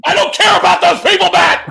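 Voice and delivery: fast, half-joking shouted rant at Matt; hammed-up scolding of a co-host; mock yelling rant.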